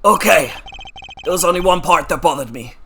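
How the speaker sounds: defense lawyer, insistent. Acted. Defense lawyer asks to question one part, insistent. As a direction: press the point as a young attorney.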